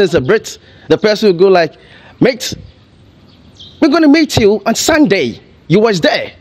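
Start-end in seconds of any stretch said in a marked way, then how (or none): 2.2-6.3 lightly imitated British accent, pitched higher; mock British accent. Host mocking how Brits talk to Africans, light British accent. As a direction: tease a Brit's slangy British accent. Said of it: "this kind of strange, weird accent".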